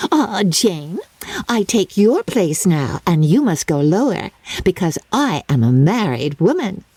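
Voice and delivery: put-on high, breathless chatter of a silly girl; Lydia, giddy young bride. Lydia boasting to her family, high and giddy. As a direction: gush it out like a spoilt bride.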